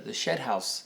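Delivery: Shed House said the way a Texan says it; Texas accent. Real, not acted. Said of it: "When you have an accent from Texas".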